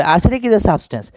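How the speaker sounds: slow, word-by-word read of the example; slow dictation. Shown as a demonstration. Teacher reading the example sentence slowly to students. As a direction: spell it out slowly for the class. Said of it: "তাইলে এখন প্রশ্ন করতে হবে".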